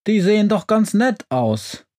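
high-pitched, pleading little stove; talking stove. A narrator's reading. Stove interrupting its witch about the visitors, mildly pleading. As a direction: chime in high as a timid creature. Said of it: "von ihrem Ofen unterbrochen".

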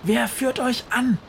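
very high, loud demanding call. A narrator's reading. Witch Befana calls to the fish swarm, demanding. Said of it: "ruft Befana".

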